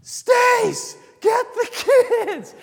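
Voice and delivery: high, loud calling shout; echoing warning shout across the woods; urgent shout. Retold or imitated. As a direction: call out to warn them of danger. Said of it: "lovingly screaming and calling us".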